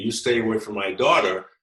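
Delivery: threatening angry-man tone. Retelling a school friend's father warning the speaker off, imitating an angry man. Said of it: "he started getting angry".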